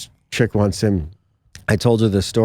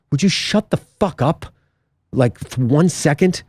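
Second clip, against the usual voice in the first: slow, higher exasperated demand; drawn-out, pitched-up annoyance; retold exasperation; 4 semitones higher, slower than usual. Retelling his snap at a date.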